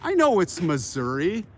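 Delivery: mock insistence; playful teasing. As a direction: tease the commenters playfully. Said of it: "And I'm having fun".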